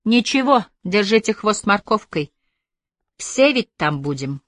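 light, encouraging lift in the voice; cheering up. A narrator's reading. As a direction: buck up a friend. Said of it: "подбодрила его Бобби".

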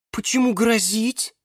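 high, startled little voice; alarmed. A narrator's reading. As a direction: ask in a sudden fluster. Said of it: "переполошился Базилик Антоша". (переполошившись, высоким голосом)

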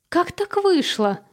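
high, slow hysterical squeal; hysterical squeak. A narrator's reading. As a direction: squeak it out in panic. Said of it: "истерически пищит София".

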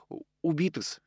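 hesitant, hushed answer; quiet. A narrator's reading. Maid breaking the news of a killing, quiet. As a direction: drop the volume and falter on the first sound. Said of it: "тихо ответила она".

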